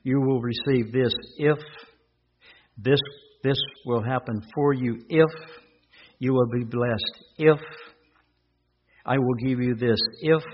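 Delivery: each line ends hanging on if, rising; stress on if. Shown as a demonstration. Preacher stressing the condition to listeners. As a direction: leave if hanging in the air. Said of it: "on that conditional word".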